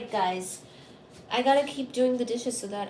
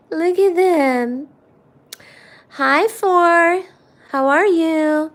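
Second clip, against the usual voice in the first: loud excited greetings; 4 semitones higher, 8 dB louder, much slower than usual. Real, not acted.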